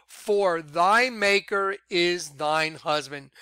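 each word laid down slowly, "thy" leaned on; slow emphasis. Shown as a demonstration. Preacher reading scripture to viewers, slow and weighty. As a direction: savor "For thy maker is thine husband" word by word. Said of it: "the reason I'm emphasizing certain words".

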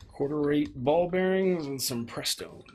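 slow, deliberate film-line delivery; movie quote. Retold or imitated. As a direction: quote the film character, drawn out. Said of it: "Who can name that movie?".

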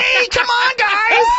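high shouting party bro; rowdy party animal. Pretend. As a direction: whoop it up like a frat bro. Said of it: "I talk like you when I'm fucking".

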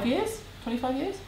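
high, rising disbelief at the number; can't believe how long it's been; surprised. Real, not acted. Surprised at her own answer about the house, rising high.

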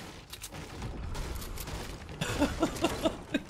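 long, airy high laugh; crying with laughter. Real, not acted. Streamer finds overlays so funny, long helpless laugh. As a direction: laugh softly until out of air. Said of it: "I'm crying".

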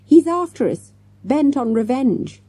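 high, loud melodramatic warning; gasped alarm. A narrator's reading. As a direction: sound the alarm, slowing dramatically at the end. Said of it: "Jessica gasped".

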